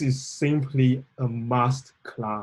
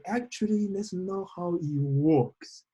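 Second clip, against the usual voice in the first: quoting Obama; 6 semitones higher, slower than usual. Retold or imitated. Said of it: "But then Obama say".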